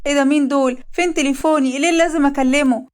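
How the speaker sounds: a pregnant wife panicking at intruders; panicked. Acted. Dalida sees intruders, panics.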